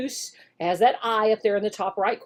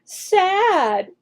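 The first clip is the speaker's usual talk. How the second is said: higher, clear vocabulary word; modeled word; 6 semitones higher than usual. Shown as a demonstration. Teacher models the vocabulary word, lifted. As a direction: lift it for the child to repeat. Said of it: "do the word sad again".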